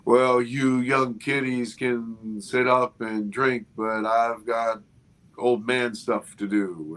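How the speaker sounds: slow, lightly put-on old man excuse; a hint of a creaky old man, slowly; mock old man. Excusing himself from the young crew, slow mock old man. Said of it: "made some stupid comment like".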